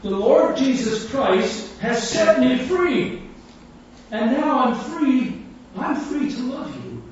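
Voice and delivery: slow, high, ringing proclamation; preaching testimony. Retold or imitated. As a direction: proclaim it slowly, like an open-air preacher. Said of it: "he's preaching his testimony through this opportunity".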